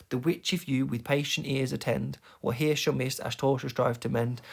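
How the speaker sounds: "The which if you" in even iambic beats; rhythmic verse reading. Shown as a demonstration. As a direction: let "patient ears attend" fall into weak-strong pairs. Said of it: "The last two lines are particularly good".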